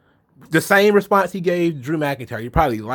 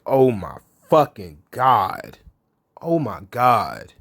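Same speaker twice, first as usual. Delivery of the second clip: exasperated groan; 3 semitones lower, slower than usual. Retold or imitated. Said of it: "I was like".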